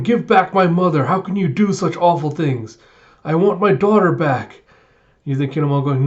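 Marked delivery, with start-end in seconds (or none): 0.0-4.6 loud, high outraged cries; mock angry townsfolk; angry crowd shouts. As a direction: yell blame at the boar. Crowd throwing rocks.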